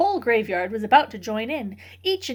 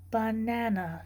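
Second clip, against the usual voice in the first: dubious; 6 dB quieter, slower than usual. Acted. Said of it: "she said dubiously".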